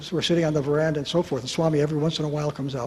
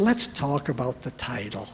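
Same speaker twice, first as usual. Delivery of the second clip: gentle tone; 3 semitones lower, 4 dB quieter than usual. Retold or imitated. Swami speaking sweetly.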